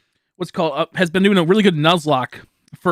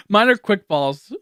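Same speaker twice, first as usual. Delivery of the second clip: laughing; 3 semitones higher, 5 dB louder, slower than usual. Real, not acted.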